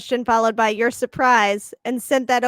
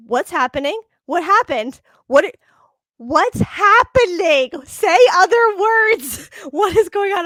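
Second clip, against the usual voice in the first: higher, louder, alarmed questions; worried husband; 6 semitones higher, 6 dB louder than usual. Retold or imitated. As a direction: press him, alarmed and confused. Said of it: "Mister Snidillo sitting across from me".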